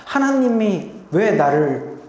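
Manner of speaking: rising, pleading lament; understated anguished plea to God; mild outcry. Retold or imitated. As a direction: cry out to a silent father. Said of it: "울면서 절규하면서 하셨을까?".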